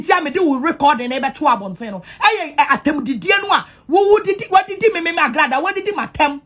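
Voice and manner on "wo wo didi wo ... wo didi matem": high, heated fast accusation; angry. Real, not acted. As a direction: fire the accusation off.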